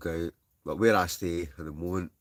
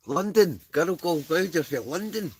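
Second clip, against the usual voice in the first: much higher, louder, squealing greeting; squealing a hello to a viewer; excited squeal; 12 semitones higher, 7 dB louder than usual. Real, not acted. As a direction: squeal it like you're thrilled to see them. Greeting commenter girl gone wild.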